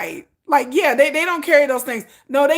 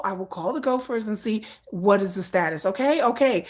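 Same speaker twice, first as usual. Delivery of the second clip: mock calming assistant. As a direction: talk him down gently. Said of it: "the assistant's like".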